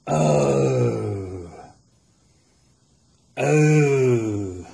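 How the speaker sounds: loud drawn-out joyful oh; moaning with delight; joyful cry. Real, not acted. Overjoyed at spark.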